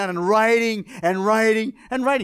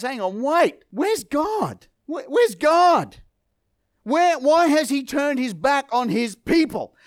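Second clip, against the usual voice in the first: indignant outcry; 4 semitones higher, slower than usual. Retold or imitated. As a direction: demand it like a man who feels abandoned. Gideon demanding where God is.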